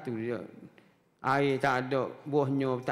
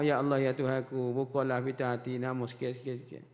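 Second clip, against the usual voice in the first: gentle prayer; 4 semitones lower than usual. Retold or imitated. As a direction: pray gently, letting it die away. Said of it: "Dia akak doa".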